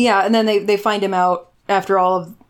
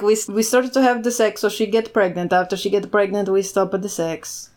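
mock Italian-Russian accent. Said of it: "He's Italian now, I guess".

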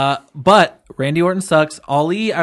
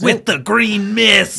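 loud, drawn-out excited outburst; worked up; 6 semitones higher, 5 dB louder, slower than usual. Real, not acted. Fan cheering on the green mist finish, worked up. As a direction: blurt it out high and stretched, like a fan. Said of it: "I got too worked up".

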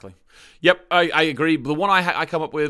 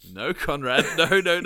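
retold emphatic denial; 2 semitones higher, 5 dB louder than usual. Retells contradicting his co-host.

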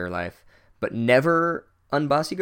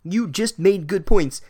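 incredulous; 9 semitones higher than usual. Real, not acted. Incredulous rant at character.

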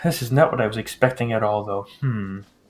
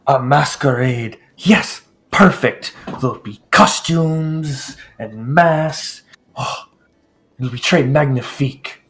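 delighted; slower than usual. Acted. Lord Bach delighted.

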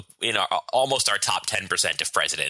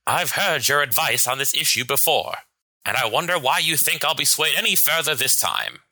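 smug villainous president; 7 semitones higher than usual. Acted. Plays Truman in sketch.

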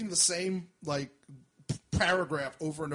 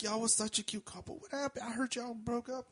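put-on drunk woman; 5 semitones higher, 10 dB quieter than usual. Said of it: "she's like".

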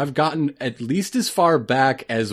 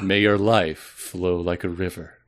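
mystic fortune teller voice; 2 semitones lower than usual. Acted. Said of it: "it should be the mystic voice".

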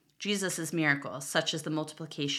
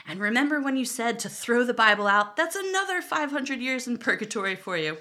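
angry fish voice; 7 semitones higher, 3 dB louder than usual. Pretend. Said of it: "Sarah, you sound angry".

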